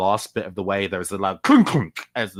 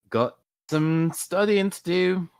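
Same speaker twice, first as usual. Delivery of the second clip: innocent student voice; 5 semitones higher than usual. Acted. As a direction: play it sweet, asking permission. Player voicing student character.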